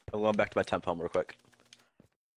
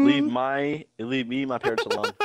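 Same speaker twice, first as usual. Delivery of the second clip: shouting; 4 semitones higher, 6 dB louder than usual. Real, not acted. Shouts at creeper, laughing.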